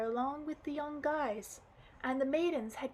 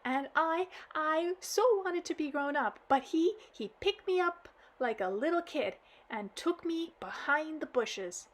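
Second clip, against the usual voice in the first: acted child crying to granddad; blubbering girl; 4 dB louder than usual. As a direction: blurt it out blubbering. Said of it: "all the while laminating".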